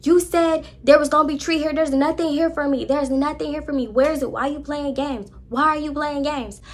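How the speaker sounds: a hammed-up high whiny complaint; high mock rant. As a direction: play the upset friend in a high, strained voice. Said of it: "she was like".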